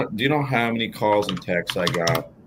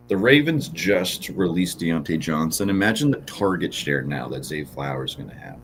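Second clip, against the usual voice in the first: sarcastic. Real, not acted. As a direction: say it like you mean the opposite. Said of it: "that's total sarcasm".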